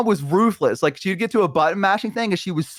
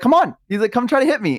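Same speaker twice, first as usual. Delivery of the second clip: retold taunt; 8 semitones higher than usual. Dad taunting in retold wrestling.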